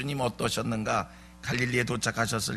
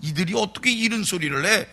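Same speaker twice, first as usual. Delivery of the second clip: higher-pitched, dismissive retort; mock disdain; 4 semitones higher, faster than usual. Preacher imitating council members at Peter and John's words, belittling. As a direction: act out officials scoffing at the unschooled. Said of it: "이렇게 무시하는".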